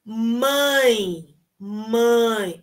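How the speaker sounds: mãe with nasal ãe diphthong; repeat-after-me mãe. Shown as a demonstration. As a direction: say mãe through the nose. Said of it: "Primeira palavra".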